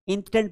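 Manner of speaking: "instant" read as in-STED; short e in "instant", as instead; correct pronunciation demo. Shown as a demonstration. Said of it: "instant पढ़ना है". ("instant" में "ए" की आवाज़)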